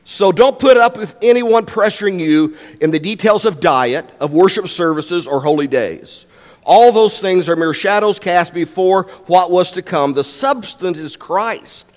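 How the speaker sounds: measured public reading of the Bible; scripture reading. Acted. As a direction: read the passage out to the congregation. Reads Scripture aloud to congregation.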